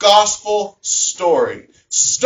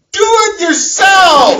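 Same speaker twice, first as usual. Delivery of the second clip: drawn-out shout, much higher and louder; grumpy shout; 11 semitones higher, 5 dB louder, slower than usual. Retold or imitated. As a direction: bellow it from the other room like a grumpy dad. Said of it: "me shouting from the other room".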